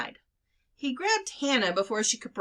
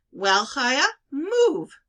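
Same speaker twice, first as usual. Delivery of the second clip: higher, louder snap to get moving; an aunt hurrying a dawdling girl; impatient aunt; 5 semitones higher, 5 dB louder, much slower than usual. A narrator's reading.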